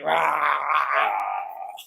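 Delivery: long drawn-out roar; big growly "raaah"; mock tiger roar. Roar after naming Hull City.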